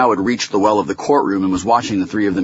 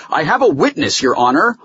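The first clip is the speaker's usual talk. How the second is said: raised voice, higher and urgent; loud insistence; 10 semitones higher, 5 dB louder than usual. A narrator's reading. Holloway interrupts the judge, insisting loudly. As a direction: call it out to the bench. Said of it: "Holloway said loudly".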